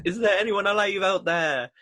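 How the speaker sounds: put-on high calling Welsh accent.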